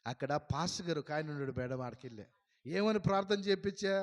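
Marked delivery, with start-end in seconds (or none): 2.7-3.9 higher, louder accusing questions; suspicious interrogation. Retold or imitated. Collector grilling her clerk, accusing questions. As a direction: demand answers from her.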